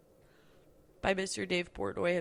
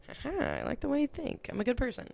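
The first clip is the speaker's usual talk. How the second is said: pitched-up, playful self-defence; cheeky high voice; 6 semitones higher than usual. Retold or imitated. Answering her teacher, in a cheeky higher voice. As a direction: chirp it out like you've been caught. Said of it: "And I was like".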